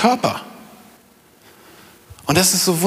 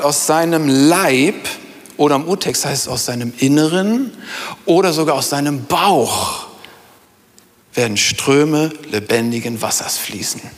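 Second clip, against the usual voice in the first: solemn scripture reading. Acted. Reads Bible verse aloud.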